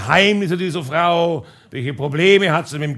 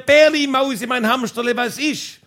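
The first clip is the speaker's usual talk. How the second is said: imitating wife calling back; 5 semitones higher than usual. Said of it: "sie hat zurückgeschrien".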